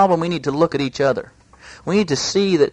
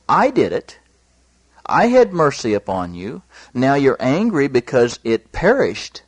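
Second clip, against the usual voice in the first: raised, firm preaching voice as God; God rebuking. Acted. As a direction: rebuke the sulking prophet.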